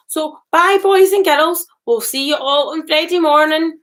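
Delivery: bright, high, loud goodbye; cheery farewell. Real, not acted.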